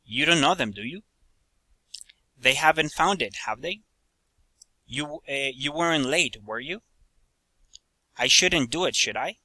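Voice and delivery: statements with a rising lift on "do you", "have they", "were you", "should I"; tag-question intonation. Shown as a demonstration. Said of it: "falling or rising intonation".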